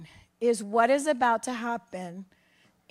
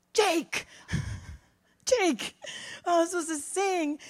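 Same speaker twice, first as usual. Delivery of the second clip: excited call; 6 semitones higher than usual. Retold or imitated. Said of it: "and I'm like".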